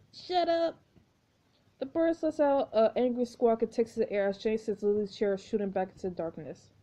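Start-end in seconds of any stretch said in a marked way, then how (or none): 0.1-0.7 snarled. Acted. Jane snaps.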